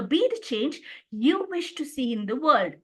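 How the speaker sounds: YOU singled out after change; stress on you. Shown as a demonstration. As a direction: lean on the word you. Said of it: "I lay the stress on the fourth word".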